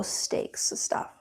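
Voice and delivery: whispering. Real, not acted. Unvoiced far whisper.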